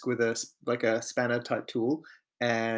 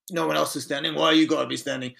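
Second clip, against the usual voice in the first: put-on American accent; 4 semitones higher, 4 dB louder, faster than usual. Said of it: "To your best American accent".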